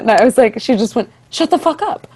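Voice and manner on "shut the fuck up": high, loud thrilled disbelief; excited scream. Retold or imitated. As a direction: shout it like you can't believe the news. Friend screaming at news.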